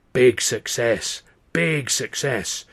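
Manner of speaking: slow rasping fortune teller repeating it; slow rasping seer. Retold or imitated. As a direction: rasp each big success like a prophecy. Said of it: "the old woman's rasping voice".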